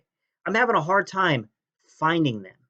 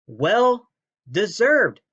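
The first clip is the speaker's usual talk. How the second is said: slow, loud and higher, dragged out; reading in all caps; 5 semitones higher, 4 dB louder, much slower than usual. Retold or imitated. Reading the commenter's caps gloat, slow mock shout. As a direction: bellow each word like a caps-lock comment. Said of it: "all capital letters".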